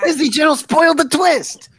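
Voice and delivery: put-on high whiny kid complaint. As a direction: whine it like an upset kid reviewer. Whiny kid reviewer impression.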